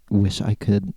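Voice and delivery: words broken by a burp. Real, not acted. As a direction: talk through a burp. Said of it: "I keep burping 'cause I'm drinking Monster".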